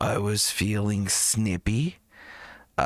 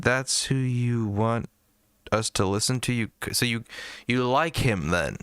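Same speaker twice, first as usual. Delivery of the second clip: mock outrage; 2 semitones higher than usual. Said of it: "I'd be like".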